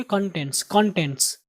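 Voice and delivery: कंटेंट्स with a slight o sound in the first syllable; कंटेंट्स said the teacher's way, with a hint of o; careful pronunciation. Shown as a demonstration. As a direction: model कंटेंट्स, first vowel toward o. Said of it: "को की आवाज़ आएगी थोड़ी सी".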